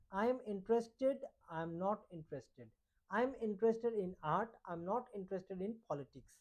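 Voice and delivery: each English sentence read out slowly and clearly; slow model sentences. Shown as a demonstration. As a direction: dictate it word by word for learners. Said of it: "हम लोग का topic है interest". (धीरे-धीरे साफ़ बोलकर उदाहरण वाक्य)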